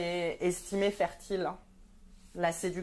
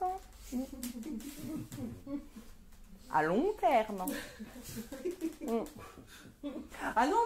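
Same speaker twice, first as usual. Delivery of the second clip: pitched-up meddler warning of regrets; nosy relative; 3 semitones higher than usual. Acted. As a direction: nag her for her own good.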